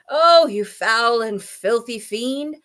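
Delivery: slow, loud outrage; indignant scolding. A narrator's reading. Elephant berates the child-eating crocodile, indignantly. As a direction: punch out the insults slowly.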